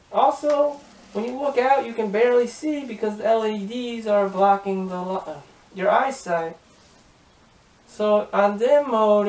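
muffled through face shell; speaking inside closed helmet. Real, not acted. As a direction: voice behind rigid mask. Seen 1: Speaker wears full helmet, faceplate down, throughout; references show helmet off.

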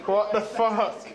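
slow, laughing what the fuck; laughing disgust. Real, not acted. Shit leaking on face.

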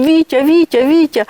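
calling a name out high and loud in alarm; retold scared cry. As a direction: cry out for husband, frightened. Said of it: "кричу".

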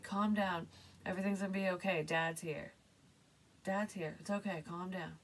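mildly reassuring father, lightly voiced; gently calm a child as dad; a hint of a soothing dad. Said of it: "'Cause I just heard, like".

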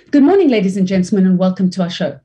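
rushed "Good morning, ladies and gentlemen" then settle; fast take. Shown as a demonstration. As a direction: speed through the greeting. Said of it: "using a different speed".

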